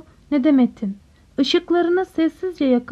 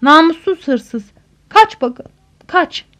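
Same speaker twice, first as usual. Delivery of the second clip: shouted insult; 2 semitones higher, 6 dB louder, slower than usual. A narrator's reading. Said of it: "diye bağırdı karanlığa doğru". (bağırarak hakaret)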